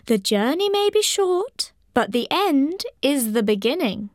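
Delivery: put-on high, wise old leaf voice; dry crackly falling leaf. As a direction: speak it like an ancient dry leaf. Older leaf speaks wisely.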